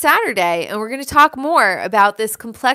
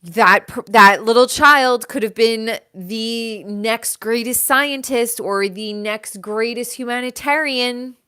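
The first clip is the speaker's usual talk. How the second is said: God mourning a lost child, hammed-up; acting as God; 5 dB louder than usual. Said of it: "and God is like".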